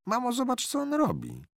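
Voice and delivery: put-on high, loud excited little boy; a boy calling out in delight; excited child call. A little boy calls to his mother about the horse, high and excited. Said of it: "zawołał Tomek".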